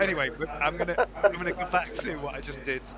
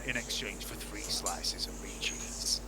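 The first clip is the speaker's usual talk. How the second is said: in-character trader; slower than usual. Acted. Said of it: "say to Chungus".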